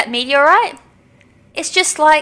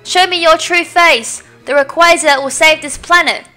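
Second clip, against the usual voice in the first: she finally did it; triumphant; 3 dB louder than usual. Acted. Zinnia telling lost Asta she succeeded, triumphant.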